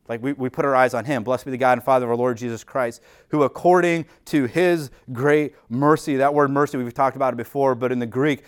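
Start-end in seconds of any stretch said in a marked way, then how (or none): 1.2-6.2 reading the verse with weight; scripture reading. Acted. Reads verse slowly.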